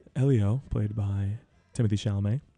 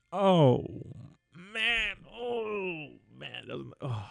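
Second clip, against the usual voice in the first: choked up; 7 semitones higher, much slower than usual. Real, not acted. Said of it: "it makes me cry".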